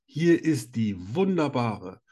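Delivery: slow, grand showman introduction; grand entrance announcement. Acted. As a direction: announce her like a ringmaster. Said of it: "ich freue mich immer auf deine Begrüßungen".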